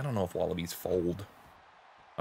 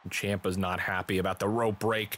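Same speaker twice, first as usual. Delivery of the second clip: play-by-play; slower than usual. Acted. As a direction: leap up in pitch at the shock, then resume the call. Live wrestling commentary.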